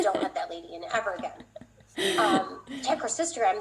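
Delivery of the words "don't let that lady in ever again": laughing mock complaint. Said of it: "then I'd say".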